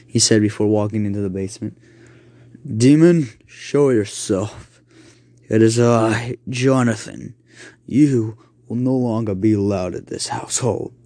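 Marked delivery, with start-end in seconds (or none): 2.6-10.9 stern exorcist, slow and firm; commanding priest. Acted. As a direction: order the demon out.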